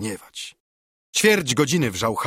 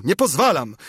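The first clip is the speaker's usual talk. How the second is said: yell; 4 semitones higher, 4 dB louder than usual. Acted. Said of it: "Ktoś drugi wrzasnął".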